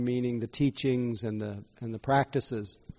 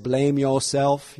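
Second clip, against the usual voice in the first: slow, slightly louder imitation of a Southern American preacher-style accent; Herman Cain accent; 4 dB louder, slower than usual. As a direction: lightly mimic a Southern American accent, drawn out. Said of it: "when I try to mimic his accent".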